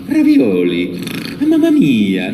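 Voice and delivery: high, loud Italian exclamations; Mario catchphrases. Shown as a demonstration. Mario's catchphrases from the session, high and loud. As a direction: toss them out with gusto. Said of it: "just remembering that".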